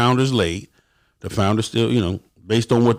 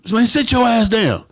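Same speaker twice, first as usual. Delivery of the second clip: higher, slower mocking command; mock order; 11 semitones higher than usual. Member told to sit down: high slow mocking order. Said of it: "You know".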